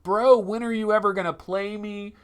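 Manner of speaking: a hint of a neglected gadget pleading; neglected headset. Unused headset complains to its owner, lightly voiced neglected plea. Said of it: "it's depressed".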